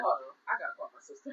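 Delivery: hurried quote. Retold or imitated. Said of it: "I said".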